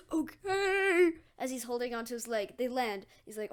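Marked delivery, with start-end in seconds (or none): 0.1-1.1 nervous compliance. Acted. Deku hanging on mid-flight.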